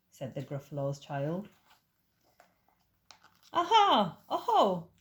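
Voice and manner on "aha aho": loud, high triumphant cry; gleeful aha; excited discovery. Acted. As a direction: pounce on the find. Child discovers track.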